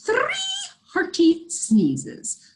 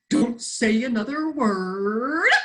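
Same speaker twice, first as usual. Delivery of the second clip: crowed; slower than usual. Acted. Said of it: "crowed the rooster".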